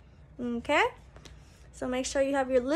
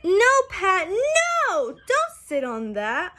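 mock alarm; 5 semitones higher, 5 dB louder, slower than usual. Warning the character in story.

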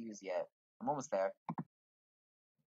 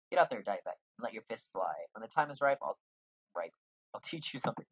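guildmaster voice. Acted. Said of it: "what voice".

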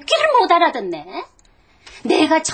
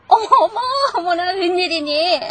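squealing with delight over the stock; breathless, giddy joy on the phone; gasping happy shrieks; giddy excitement; 3 semitones higher, 4 dB louder than usual. Acted. Phone call, stock soared, giddy.

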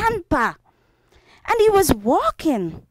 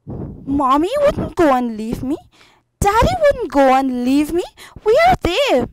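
put-on mildly upset child, rising into a higher plea; bewildered, lightly acted crying; tearful little boy; 4 semitones higher than usual. Lost boy asking where his parents went, mildly tearful. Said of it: "he started to cry".

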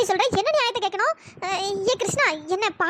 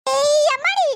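a granny whimpering out her grievance; granny half crying; 2 semitones higher than usual. Acted. Grandmother tearfully telling Riya the grandson kissed her.

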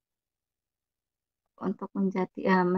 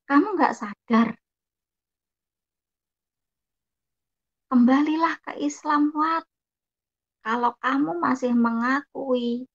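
imitated stern scolding; retold reproach, urging them to repent; mildly angry; 3 semitones higher, 3 dB louder than usual. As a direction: admonish a sibling, raised and insistent. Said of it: "nadanya sudah agak marah".

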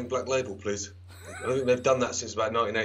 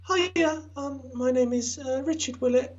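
much higher, squeaky comic caller voice; high Joe Pasquale voice; 13 semitones higher, slower than usual. Retold or imitated. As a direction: put on a high squeaky bloke's voice. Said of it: "no, it's Joe Pasquale, actually".

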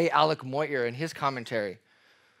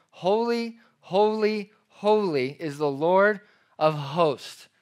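exalted proclamation; 3 semitones higher, slower than usual. Acted. Preacher voicing the seraphim's cry, exalted. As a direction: proclaim it like the angels. Angels' cry read from scripture.

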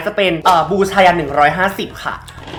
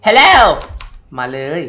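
ordinary delivery

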